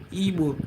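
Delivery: "Igbo" said softly as ee-boh; correct Igbo pronunciation. Shown as a demonstration. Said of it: "not Igbo".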